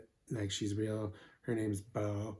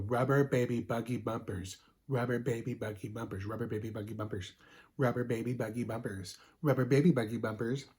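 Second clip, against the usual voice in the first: tongue twister repeats; 2 semitones lower than usual. Shown as a demonstration. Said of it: "you say it real fast".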